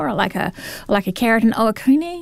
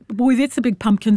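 put-on Kiwi accent. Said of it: "you can say what he said with a Kiwi accent".

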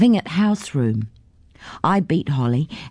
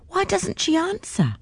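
puzzled question; 13 semitones higher, 5 dB quieter than usual. A narrator's reading. Puzzled at an unanswered door.

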